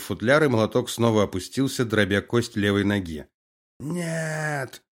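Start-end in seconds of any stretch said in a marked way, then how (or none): 3.8-4.8 high strained cry of pain; anguished scream. A narrator's reading. Prisoner's second leg is smashed, screaming in pain. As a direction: scream as the bone breaks. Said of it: "снова закричал Меликов".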